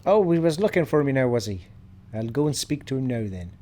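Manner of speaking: hammed-up Irish accent; bad Irish accent. Gamer answering that Seeker is looking for her, bad Irish accent. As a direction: put on a badly faked Irish lilt. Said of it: "That was probably my worst Irish accent ever".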